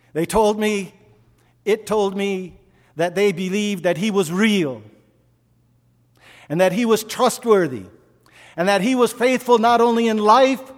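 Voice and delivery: loud, high, driving sermon voice; fervent preacher building to a cry; preaching at full force. Acted. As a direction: preach it to the back row.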